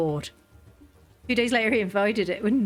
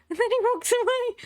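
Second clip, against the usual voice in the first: high, helpless laughing delivery. Real, not acted. Player amused by the king's exit, laughing. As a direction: crack up while getting the words out. Cracks up over the story.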